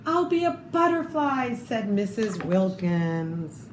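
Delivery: lively read-aloud storytelling voice; story narration. Acted. Reading a picture book to children, lively storytelling.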